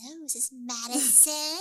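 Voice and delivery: eerie, very slow, drawn-out, high put-on voice. Prank-calling the other girls' hotel rooms during trade shows: creepy voice. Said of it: "I like doing the creepy voices".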